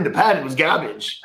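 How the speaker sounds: mock Australian accent; put-on Australian, dropped r's. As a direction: say it as a teasing Australian impression. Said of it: "Tell me that's not Australian".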